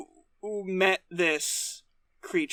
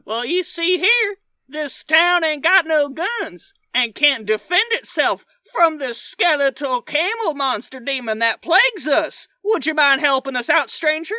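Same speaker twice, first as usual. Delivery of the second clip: higher, whiny pleading barkeep; tearful bartender; 4 semitones higher than usual. Pretend. Bartender begging the stranger to fight the monster, tearful. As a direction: beg the stranger for help, near tears. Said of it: "I'm the bartender".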